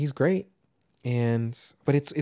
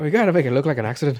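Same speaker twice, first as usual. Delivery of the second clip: quick, louder mock British accent; 3 semitones higher, 5 dB louder, faster than usual. Plotting in a film spoof, mock British accent. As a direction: rattle it off in a put-on British accent. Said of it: "our accents sound pretty good".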